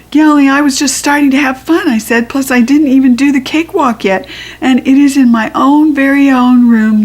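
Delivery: pleading to stay at the fair; excited protest. A narrator's reading. Child begging dad to stay, high and fast.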